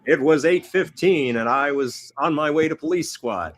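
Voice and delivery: a hint of deadpan noir narration; flat, dry cop voiceover; deadpan Leslie Nielsen. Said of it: "in his, uh, deadpan voice saying".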